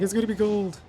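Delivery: high, loud replay of getting excited; excited self-quote. Retold or imitated. Gamer retelling hopes for a gold wish, excited. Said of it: "I was getting so excited".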